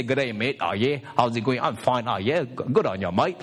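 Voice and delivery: a hint of a friendly Aussie greeting; casual Aussie twang, only lightly done; Aussie accent. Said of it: "Aussies have a saying".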